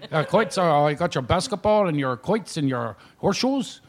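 lightly imitated Shamokin tour-guide accent. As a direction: show them round in small-town Shamokin talk. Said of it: "He's there with that Shamokin accent".

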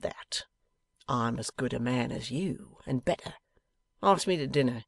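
lightly voiced blustering rogue; a hint of an aggrieved bully; contemptuous Wegg. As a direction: air grievances with swaggering scorn.

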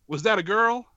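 lightly voiced old-timey announcer. Shown as a demonstration. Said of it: "a slightly old-timey voice".

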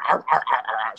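mock seal bark, arr arr; a playful imitated bark; barking imitation. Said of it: "they both kinda barked the same".

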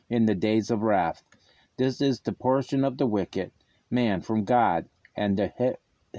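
solemn, measured Bible reading; scripture reading. Acted. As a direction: read the verses with gravity.

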